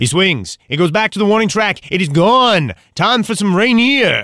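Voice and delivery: building baseball play-by-play call; home run call. Shown as a demonstration. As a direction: call the homer like a radio announcer. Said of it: "You wanna hear my home run call?".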